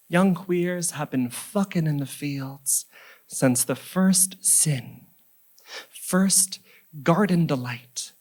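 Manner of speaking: slow poetry reading with long pauses; measured spoken-word delivery, phrase endings falling away; poem recital. Acted. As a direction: recite line by line, letting each image land.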